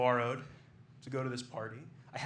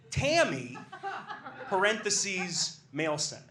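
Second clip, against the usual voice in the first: laughing; 3 semitones higher, 3 dB louder, slower than usual. Real, not acted. Reading the note aloud, cracking up.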